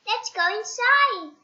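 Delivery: high goblin invitation; a cheeky goblin coaxing. Acted. Goblin inviting Mister Uppity into the tree hole, high and cheeky.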